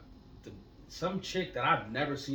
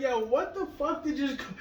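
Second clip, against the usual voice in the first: imitating dad; 13 semitones higher, 8 dB louder than usual. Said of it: "My dad called me and was like".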